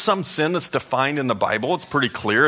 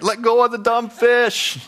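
much higher, louder, slower pleading yell; 11 semitones higher, 5 dB louder than usual. Retold or imitated. Pastor retelling shouting at the eagle on TV, loud pleading yell. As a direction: beg the bird to drop it, full voice. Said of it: "I'm yelling at the T V".

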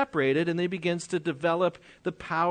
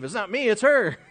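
higher, mock defensive protest; mock Adam blaming Eve; 4 semitones higher, 4 dB louder than usual. Adam excusing himself before God, mock defensive and higher. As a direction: toss the blame onto her like a caught husband. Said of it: "That almost sounds like Adam and Eve".

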